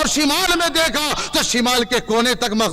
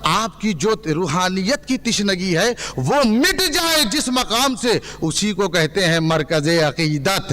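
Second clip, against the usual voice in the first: rousing sermon to a crowd; fiery preaching. Real, not acted. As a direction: preach it rhythmically, ringing out each city name. Preacher addressing a religious gathering.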